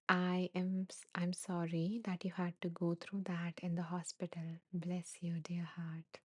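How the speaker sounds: tearful, breathless whisper reading the comment; barely voicing it, moved to tears; soft emotional whisper; choked-up whisper. Real, not acted. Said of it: "You got me emotional".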